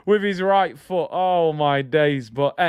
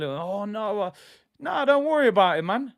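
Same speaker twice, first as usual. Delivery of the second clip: lightly voiced mock fretting, partly higher; mock fussy reaction; 3 semitones higher than usual. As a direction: imitate a fussy player brushing it off. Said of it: "If you get all".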